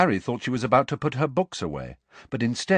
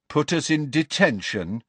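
mocking, dare-you tone; daring taunt; 7 semitones higher than usual. A narrator's reading. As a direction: taunt her to try it. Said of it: "I'd like to see you try it".

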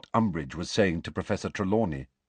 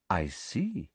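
softer, quiet remark; softly; 5 dB quieter than usual. A narrator's reading. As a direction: say it softly and coolly. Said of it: "said Professor Umbridge softly".

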